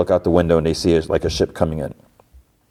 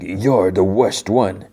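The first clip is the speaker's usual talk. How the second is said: tag; much slower than usual. Retold or imitated. Jod points accusingly at Wim.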